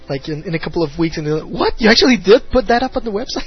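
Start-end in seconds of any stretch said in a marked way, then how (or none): 1.5-3.5 quick, high and loud disbelief; incredulous surprise. Retold or imitated. A friend finding the upload weeks later, shocked. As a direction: gasp out that he can't believe it.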